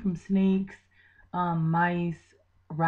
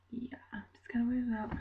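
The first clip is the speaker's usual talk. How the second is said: worn-out whisper; 3 semitones higher, 9 dB quieter than usual. Real, not acted. Vlogger feeling nauseous, signing off the topic in a whisper. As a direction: drop to a soft, tired whisper. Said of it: "I feel really nauseous and just out of it".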